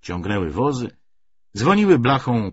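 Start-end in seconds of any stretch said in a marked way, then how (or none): none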